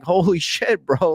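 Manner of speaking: put-on a light New York accent on a startled exclamation. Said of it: "with my New York accent".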